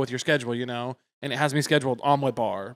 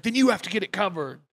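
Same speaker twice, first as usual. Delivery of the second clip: higher, mock-indignant order; annoyed boss; 5 semitones higher than usual. Boss refusing teenage employee's excuse, mildly irate. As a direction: lightly imitate a boss losing patience. Boss snapping back in retold quarrel.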